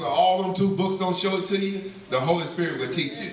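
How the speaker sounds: a hint of a wise old woman teaching; mildly voiced old lady.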